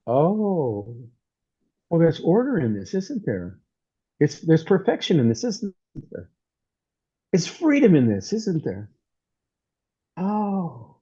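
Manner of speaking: long dawning "oh", then hushed tag questions; acted realization. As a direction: act out slowly seeing it. Acts out a moment of revelation.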